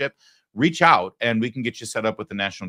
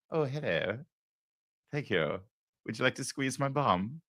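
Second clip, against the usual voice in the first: mock flattered lady; 4 semitones higher, 6 dB quieter than usual. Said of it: "this guy isn't even British".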